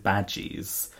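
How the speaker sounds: "badgies" said the Scottish way, short front a; Scottish pronunciation. Shown as a demonstration. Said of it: "what do you think I've just said".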